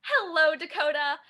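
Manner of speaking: lightly lifted, lilting hello; Emmeline's sweet greeting. Shown as a demonstration. Emmeline greeting Dakota as one talks to pets, lilting greeting. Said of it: "one of her little lines is".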